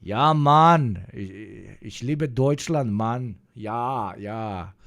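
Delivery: put-on playful German accent with an emphatic opening. Streamer showing his best German accent, playfully emphatic. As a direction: lean into a mock German enthusiast. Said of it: "give us your best German accent".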